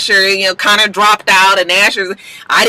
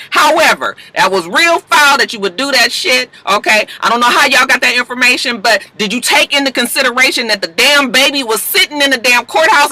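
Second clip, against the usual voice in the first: angry confrontation; 5 semitones higher than usual. Retold or imitated. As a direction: act out a fed-up lawyer chewing out her rival. Annalise confronts Bonnie in garage.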